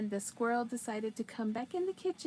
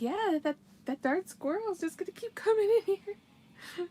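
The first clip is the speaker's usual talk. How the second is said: mock exasperated; 8 semitones higher, 5 dB louder than usual. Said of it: "I'm like".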